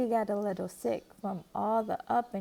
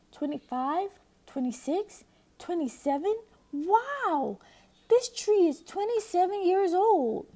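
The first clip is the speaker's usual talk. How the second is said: excited counting; 8 semitones higher, 3 dB louder than usual. A narrator's reading. Brother counting rings excitedly.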